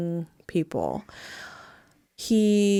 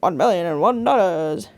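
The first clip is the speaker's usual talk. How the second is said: sweaty auctioneer voice. Retold or imitated. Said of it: "this big fat sweaty dude".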